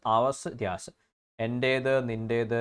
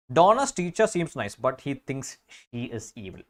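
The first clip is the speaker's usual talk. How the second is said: slow example read; much slower than usual. Shown as a demonstration. Teacher reads example very slowly.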